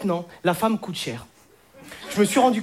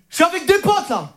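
sugary higher voice, giggling into the phone; sweet phone call to girlfriend; 5 semitones higher than usual. Shown as a demonstration. Boyfriend cooing to his girlfriend on the phone, giggly. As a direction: sweet-talk her with little laughs between lines. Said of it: "Je vais vous montrer".

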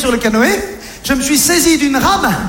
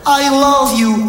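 slow breathy-free put-on "I love you"; lightly voiced swooning girlfriend; mock romantic English; 3 semitones higher, much slower than usual. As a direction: drawl it like a swooning lover. Sandy declares love, mock English.

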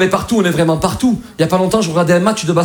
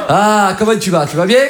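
drawn-out Marseille greeting; hammed-up southern landlord. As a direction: stretch it like a chummy Marseille landlord. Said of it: "un mec à Marseille te loue".

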